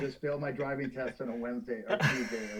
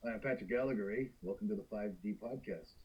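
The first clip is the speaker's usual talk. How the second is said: Canadian accent; 4 semitones lower, 6 dB quieter than usual. Shown as a demonstration. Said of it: "And I'll do Canadian".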